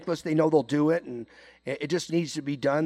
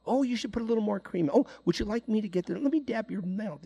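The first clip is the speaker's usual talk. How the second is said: high, fast fussing over a coworker; mock coddling like a hovering mom; fussy mothering; 6 semitones higher, faster than usual. Imitating a woman fussing over a coworker's lunch, high and fast. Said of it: "they're mothering their coworkers".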